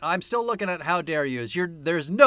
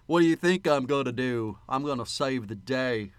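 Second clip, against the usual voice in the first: put-on Nick Cage's Southern accent. Co-host quoting the action movie's one-liner, imitated Southern accent. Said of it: "Oh, God, that accent".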